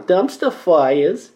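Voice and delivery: very slow, drawn-out Brooklyn Jewish take on Dumpster Fires; Jewish Brooklyn accent. Shown as a demonstration. Host demoing the segment name for listeners in a slow Brooklyn Jewish accent. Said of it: "Try it".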